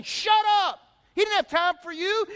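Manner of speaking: high, sharp mock rebuke; crowd shushing him. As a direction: tell a beggar off to shut him up. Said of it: "the crowd saying".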